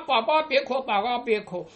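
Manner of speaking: lightly voiced granny hushing a toddler; soothing grandmother. Grandmother comforts a toddler who fell, lightly acted soothing. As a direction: hush the crying child, quick and fussing.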